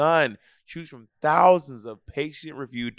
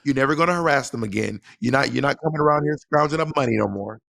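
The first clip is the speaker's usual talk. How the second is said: quick, lightly voiced thug threat; playful tough-guy warning; mock thug; 3 semitones higher, faster than usual. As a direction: lean on them like a hired heavy. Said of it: "be a thug for you".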